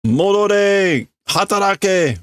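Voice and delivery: high-pitched scolding voice; scolding boss. Acted. Boss scolding idle workers, high-pitched scolding. Ordering leader back.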